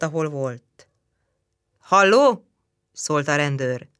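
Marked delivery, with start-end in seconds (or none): 1.8-2.5 louder hello into the receiver; phone call. Acted. Policeman calling into the telephone, louder. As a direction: call down the line.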